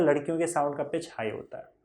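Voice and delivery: whispered aside to the class. Acted. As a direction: breathe the line with no voice. Teacher drops to a whisper.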